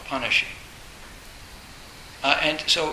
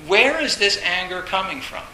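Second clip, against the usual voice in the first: louder, higher sudden shock at own anger; mock surprised anger; 5 semitones higher, 6 dB louder than usual. Meditator on the cushion, suddenly startled by own anger. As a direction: blurt it like anger ambushing you mid-meditation.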